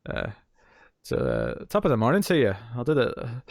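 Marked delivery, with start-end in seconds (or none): 1.7-2.5 stock stage-Irish greeting; bad Irish accent. Showing off a failed accent, half-hearted Irish. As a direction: have a weak go at an Irish brogue. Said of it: "I can't do an Irish accent".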